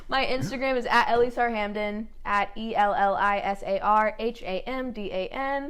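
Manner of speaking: slightly tipsy, loose delivery. Real, not acted. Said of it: "Sorry, I'm a little tipsy".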